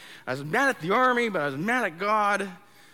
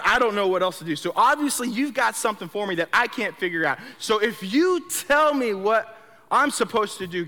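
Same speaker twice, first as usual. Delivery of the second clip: raised, pleading outburst to God; frustrated prayer; 2 semitones higher, 5 dB louder than usual. Retold or imitated. Fed up, crying out to God for direction, loud and pleading. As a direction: pour out the frustration, louder. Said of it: "I'm fed up and I'm frustrated".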